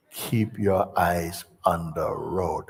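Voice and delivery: slow, low steady instruction; calm instructor. Retold or imitated. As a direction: settle him down slowly.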